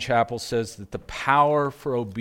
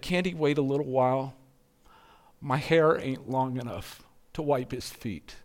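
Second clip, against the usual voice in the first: a hint of a weeping young woman begging; pleading young woman; 2 semitones higher than usual. Preacher voicing the prostitute to Falconer, lightly pleading.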